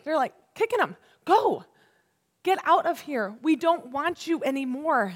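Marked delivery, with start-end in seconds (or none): 1.3-5.1 mildly frantic shooing; afraid Egyptians. Acted. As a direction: push them away, a touch of fear. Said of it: "They're afraid".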